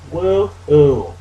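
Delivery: quick cheer as he jumps; woo-hoo cheer. Real, not acted. Player jumping a ledge, light whoop. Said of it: "last time I made that sound".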